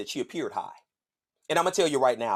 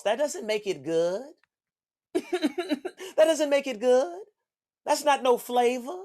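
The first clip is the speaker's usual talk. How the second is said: high squeaky laughing voice; laughing mock voice; 9 semitones higher than usual. Comic telling crowd sauce ruins food, laughing. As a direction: laugh the words out.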